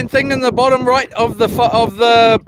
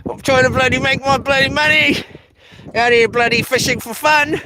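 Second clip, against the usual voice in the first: hammed-up grumble, pitched up; mock frustrated rant; 4 semitones higher than usual. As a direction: pretend to be fed up, half joking. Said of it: "Just joking".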